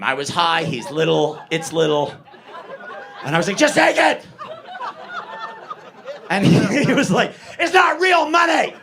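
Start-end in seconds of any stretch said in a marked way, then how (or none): 3.6-4.2 high, loud, exasperated urging; insistent shout. Retold or imitated. Acts out insisting on giving money. 7.6-8.7 high, loud protest; mock outraged shout. Little man's outraged reply.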